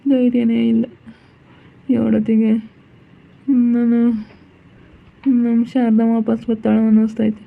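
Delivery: halting lament with long pauses; understated weeping, broken into short phrases; acted tearful despair. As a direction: grieve haltingly, as if courage has drained away. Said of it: "ಸುಮ್ಕಿರು, ಅಳ್ಬೇಡ".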